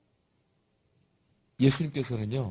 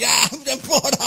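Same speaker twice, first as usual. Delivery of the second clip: loud, high boozy call for another round; mock tipsy drinking buddy; 8 semitones higher, 7 dB louder than usual. Pastor jokingly imagines Jesus drinking with disciples, hammed-up tipsy call. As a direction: ham up a rowdy drinker ordering a pour. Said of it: "막 술 먹고 막 제자들이랑".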